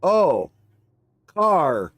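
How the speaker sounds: a lightly voiced owl, slowly realising; dazed owl voice. Owl in the road noticing the truck, lightly voiced dazed owl.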